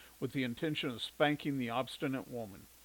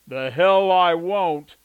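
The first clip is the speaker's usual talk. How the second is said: huge slow bellow, much louder; roaring shout; 5 semitones higher, 16 dB louder, much slower than usual. A narrator's reading. The Duke bellowing as he spins to punch the man. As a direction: explode into the punch.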